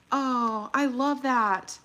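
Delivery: normal talking voice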